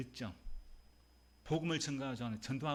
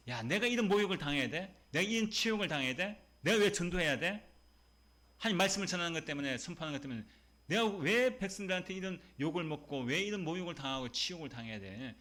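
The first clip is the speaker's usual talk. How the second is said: a touch of aggrieved indignation, a bit louder; indignant protest; 3 semitones higher, 3 dB louder than usual. Retold or imitated. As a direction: complain as if wronged, voice raised. Voicing Jeremiah's indignant protest. (억울하고 화난 목소리로 조금 크게)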